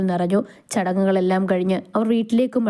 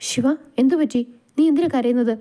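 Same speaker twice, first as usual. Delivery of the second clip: higher-pitched, worried questioning; flustered concern; 5 semitones higher than usual. A narrator's reading. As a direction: ask as if alarmed to find her crying. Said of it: "അവൻ വെപ്രാളപ്പെട്ട് ചോദിച്ചു". (പരിഭ്രമത്തോടെയുള്ള ചോദ്യം)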